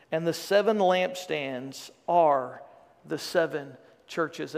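solemn, measured reading of Revelation; scripture reading. Acted. Pastor reading Revelation to the church, solemn scripture reading. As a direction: read it out like the Word to the congregation.

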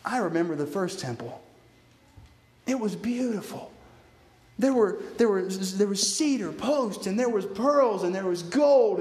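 wistful lament. Retold or imitated. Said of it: "they thought to themselves".

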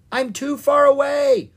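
high, loud desperate call; yelled. A narrator's reading. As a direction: yell back over a distance. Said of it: "Owen yelled".

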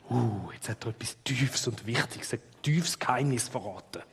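hushed, impressed whisper; awed whisper. Pretend. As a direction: breathe it out in awe. Listeners awed by deep secret.

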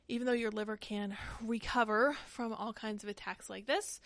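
breathless, gasping between words; struggling for air, winded; short of breath. Real, not acted. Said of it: "I'm short of breath now".

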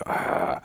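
breathy, voiceless "aah" of rage; mock-seething exhale; fuming growl. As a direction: let out an angry steam-valve "ah". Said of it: "see the steam coming out of his ears".

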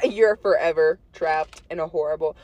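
flat, even monotone drone. Pretend. Doom line said to a friend in a flat monotone. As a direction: drone it out with no tune. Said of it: "That was a monotone".

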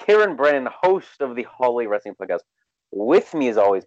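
big booming announcer voice; loud booming voice. Acted. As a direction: boom it out like a host. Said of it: "in your loud booming voice".

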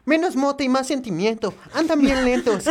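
anime voice; cute anime character voice; vtuber. Acted. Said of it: "está bien verga la voz de anime".

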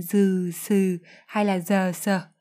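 dừ, sừ, giờ, sờ each drawn out with an added vowel; over-pronounced consonants. Shown as a demonstration. Teacher warns learners, dừ, sừ, giờ, sờ as exaggerated full syllables. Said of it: "cũng đừng đọc rõ thành".

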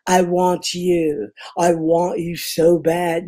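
slow, drawn-out movie line; Donald Pleasance. Retold or imitated. Actor recalling a co-star's movie line, slow imitation. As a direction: imitate a film line, stretching each word. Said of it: "the part when he goes".

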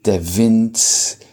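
slow, measured verse recital; spacious, deliberate poem delivery; poetry reading. Acted. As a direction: read the poem unhurriedly, pausing between phrases.

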